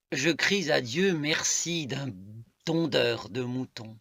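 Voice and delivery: measured poetic reading, falling at line ends; poem recitation. Acted. Reading a love poem to listeners, measured recitation. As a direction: recite it in deliberate, spaced phrases.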